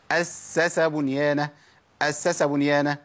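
أسس بنيانه with the doubled s shortened; three seens become two. Shown as a demonstration. Teacher showing students a faulty reading, أسس losing an s. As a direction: slur the seens of أسس together. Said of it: "التلات سينات دول بقوا اتنين تقريبًا".

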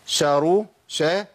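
شارو opening on sh with a short a; vowelled shin. Shown as a demonstration. Teacher splitting the doubled letter, vowelled shin in شارو. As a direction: start شارو on a moving sh. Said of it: "وأدي شين متحركة".

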